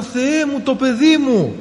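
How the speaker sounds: high, loud cry to God; retold desperate cry. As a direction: cry out for the child, reliving it. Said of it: "Φώναζα".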